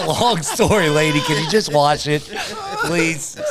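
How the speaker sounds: laughing. Retold or imitated. Begging the dry cleaner lady, laughing. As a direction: laugh while begging her to wash it.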